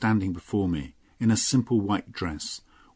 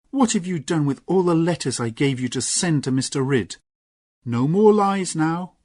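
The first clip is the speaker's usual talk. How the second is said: stern mistress; 9 semitones higher, 5 dB louder than usual. Acted. Lorna confronting Gwenny, stern raised voice. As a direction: lay down the law.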